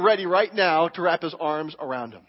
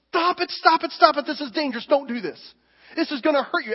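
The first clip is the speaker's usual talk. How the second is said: God's urgent warning; 5 semitones higher than usual. Retold or imitated. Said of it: "God says".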